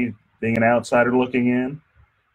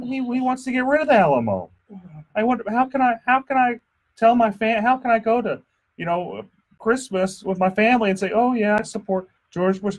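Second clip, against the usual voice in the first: mock outrage; 9 semitones higher than usual. Joking outrage about family and Alamo.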